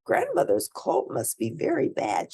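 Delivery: put-on high girl's voice, thinking aloud; worried little girl, pitched high; girl wondering about grandma. A narrator's reading. Girl's inner thought voiced.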